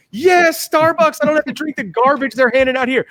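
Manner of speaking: hotel guest overjoyed to find a Starbucks; excited. Retold or imitated. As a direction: cheer like you've just found treasure. Thrilled at finding the Starbucks.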